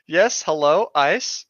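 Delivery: slow, drawn-out hello, ice; mock phone greeting. GM jokingly answering as the ICE hotline, slow.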